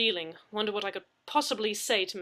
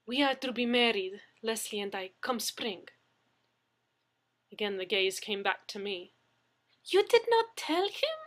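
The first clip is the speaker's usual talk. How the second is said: put-on Russian fiancée exposing Leslie, in a Russian accent; 3 semitones higher, 5 dB louder than usual. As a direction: tease him in a Russian accent. Russian woman character held.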